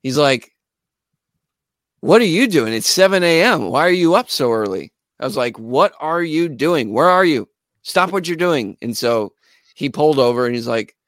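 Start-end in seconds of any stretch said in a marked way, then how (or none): 2.0-4.9 higher, louder, mildly incredulous retort. Retold or imitated. Drummer questions a seven A M call, mildly incredulous. Retold Tony, startled by early call. 5.6-8.8 insistent. Retold or imitated. Bandleader phones his drummer, insistent and deliberate.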